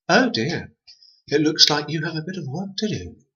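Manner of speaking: high, smug little voice; gloating twins. A narrator's reading. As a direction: gloat sweetly.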